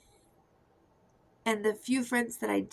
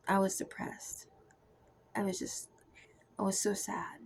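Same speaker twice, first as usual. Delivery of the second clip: hushed sadness. Retold or imitated. Remembering depression to viewers, a sad hushed whisper. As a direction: let the sadness drop you to a whisper.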